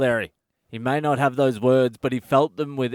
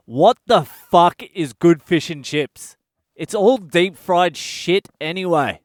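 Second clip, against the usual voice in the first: louder, higher, slower scoffing; scornful inner voice; 4 semitones higher, 4 dB louder, slower than usual. Retold or imitated. Inner voice scoffing at the fish and chips hype, loud slow scorn. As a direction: sneer at the whole idea of good fish and chips. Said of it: "The voice in the back of my head was saying".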